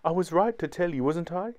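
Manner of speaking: understated tearful smile; smiling through tears. A narrator's reading. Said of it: "smiling through her tears".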